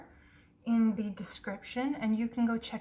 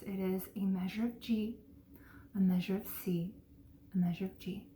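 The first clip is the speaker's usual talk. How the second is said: whispering; 3 semitones lower, 5 dB quieter than usual. Real, not acted. Counting chord progression under breath.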